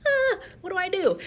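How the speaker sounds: high, loud squeal of panic; hammed-up panicked inner voice. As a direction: freak out inside, voice leaping up. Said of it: "inside I'm all".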